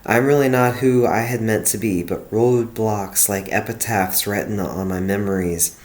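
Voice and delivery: steady, earnest poem read; reading her own poem aloud. Acted. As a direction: read the verses out with care. Reads her old poem aloud.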